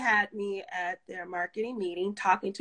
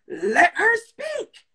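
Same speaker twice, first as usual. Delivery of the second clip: slow, loud, high firm order; firm command; 11 semitones higher, 7 dB louder, much slower than usual. Retold or imitated. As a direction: lay down the law, slowly. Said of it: "and he goes".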